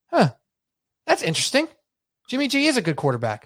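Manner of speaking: dry, skeptical musing that peaks high on "interesting"; mock musing. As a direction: play along, unconvinced, with "Jimmy G is a good quarterback". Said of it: "And I go".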